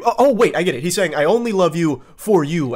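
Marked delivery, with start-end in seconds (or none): 1.1-2.8 emphasize "for" to clarify the meaning; stress on FOR. Shown as a demonstration. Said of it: "as in, like, her personality".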